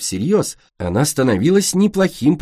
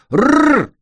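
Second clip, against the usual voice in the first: high, loud playful growl; mock roar; 6 dB louder than usual. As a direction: roar like a stage monster. Clay playing the thief roars.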